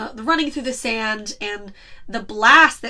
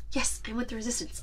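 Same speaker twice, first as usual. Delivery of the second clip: self-convincing mumble; 12 dB quieter, faster than usual. Retold or imitated. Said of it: "trying to convince himself".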